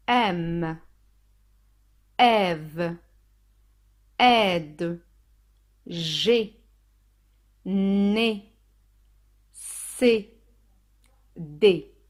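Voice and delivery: isolated syllables, each drawn out and firm; one syllable at a time, long pauses; reading out syllables. Shown as a demonstration. Teacher reading the syllable chart for learners, slow and separated. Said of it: "Je lis les syllabes".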